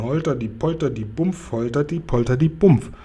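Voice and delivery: rhythmic imitation of trampling giants; bouncy sound-word chant, second round stronger; stamping imitation. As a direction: thump it out in a steady beat. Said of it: "klingt das in meinen Ohren wie das Stampfen".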